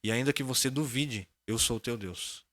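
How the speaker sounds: slow, solemn, measured divine voice; voice of God. Retold or imitated. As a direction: deliver it slowly like a grave divine voice. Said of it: "Falou assim".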